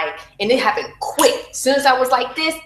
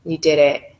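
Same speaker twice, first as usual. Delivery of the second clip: tender; 5 semitones lower than usual. Retold or imitated. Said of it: "kissing me and telling me".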